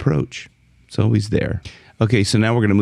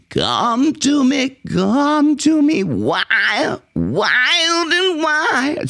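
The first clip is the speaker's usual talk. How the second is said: nasal high singing sliding in; twangy onsets; much slower than usual. Shown as a demonstration. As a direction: slide into each onset through the nose. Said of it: "it helps when you get that twangy".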